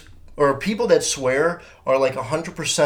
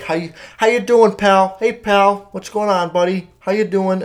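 dad's voice, higher and louder, hearty; a chummy dad checking in, pitched up; imitating dad; 6 semitones higher, 4 dB louder than usual. Dad calls his son, hearty and higher. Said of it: "My dad will just say".

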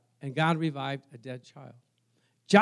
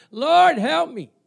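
loud, high, drawn-out plea; crying out; 12 semitones higher, 10 dB louder, slower than usual. Acted. Preacher voices a sinking believer crying to God, loud drawn-out wail. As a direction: wail to heaven for help. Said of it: "you're sinking and you're crying out".

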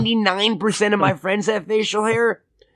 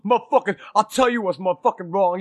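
lightly imitated pissed-off friend; mock grumbling curses, Pryor-style; Jesse. Answering his buddy's question on the phone, mildly mock angry. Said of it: "I was pissed".

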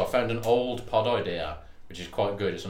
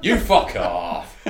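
friendly fuck off; 3 semitones lower, 7 dB louder, much slower than usual. Retold or imitated. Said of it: "It was just like".

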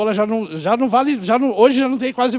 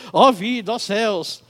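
gloomy cartoon hyena; slower than usual. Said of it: "conheceu aí o desenho do Hard".

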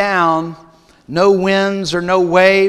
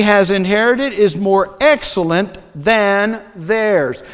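scripture reading. Acted. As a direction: read the passage with solemn weight, unhurried.

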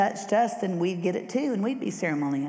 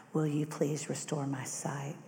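whispered plea; 4 semitones lower, 6 dB quieter than usual. Acted. Bartimaeus pleads to Jesus.

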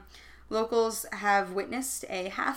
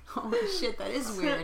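laughing. Retold or imitated. Retold own reaction, laughing.

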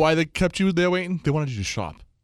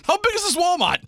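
much higher, laughing through the words; laughing question; 14 semitones higher, 4 dB louder than usual. Real, not acted. Co-host cracks up at the long Walmart wait, laughing high. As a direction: squeak it out mid-laugh in disbelief.

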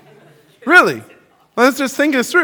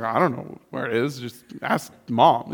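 put-on clueless teen; 9 semitones lower, 8 dB quieter than usual. Teenager asked for directions to the mall, lightly clueless. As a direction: shrug it off like a careless kid. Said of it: "I'd be like".

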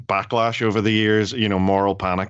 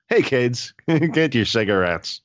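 put-on bright old-timey ad pitch, a bit higher; chipper 1950s ad; 4 semitones higher than usual. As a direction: sell cigarettes like a cheery vintage commercial. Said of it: "old-timey and fun".

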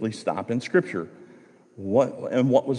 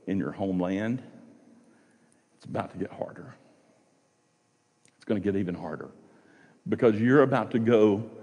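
soft, hushed plea, a touch mournful; lightly voiced Naomi, quietly begging; pleading Naomi; 2 semitones lower, 3 dB quieter than usual. Naomi softly pleading with her daughters-in-law, hushed and earnest. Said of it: "she's trying to plead with them".

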